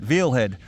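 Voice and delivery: "veal head" said as vil hed again; "veal" with a long ee, on purpose; his own way. Shown as a demonstration. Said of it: "that's how I say it".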